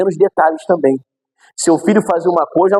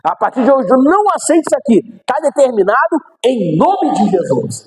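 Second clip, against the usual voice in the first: higher, then slowing into a solemn command; authoritative prayer; 6 semitones higher than usual. Shown as a demonstration. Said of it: "Essa é a melhor oração".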